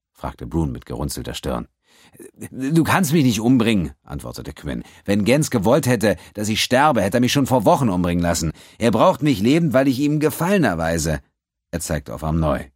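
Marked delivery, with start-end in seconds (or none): 2.5-11.2 higher and louder, talking fast in the middle; heated insistence. A narrator's reading. Quinn arguing with the pirate he cannot kill him, loud and heated. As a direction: argue hard that they need you alive. Quinn argues for his life.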